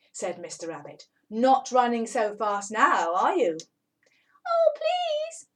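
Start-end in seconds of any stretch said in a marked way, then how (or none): 1.3-3.6 taunting. Acted. Rabbit taunting the trapped cat. 4.5-5.5 much higher, louder begging kitten; pleading cat. Acted. Trapped cat begging rabbit.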